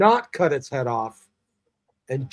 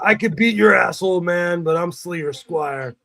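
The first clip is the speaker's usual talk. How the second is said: put-on squeaky boy voice; 3 semitones higher than usual. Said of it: "He's that squeaky little voice".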